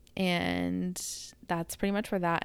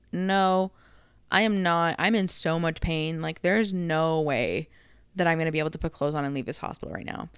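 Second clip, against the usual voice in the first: insistent refusal; 4 dB louder than usual. Retold or imitated. Refusing to leave recovery.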